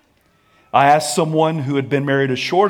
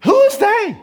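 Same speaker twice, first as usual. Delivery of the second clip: high, loud hammed-up quarrel; mock marital shouting match; 6 dB louder than usual. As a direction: shout back and forth like a fighting couple. Quarrel acted both sides.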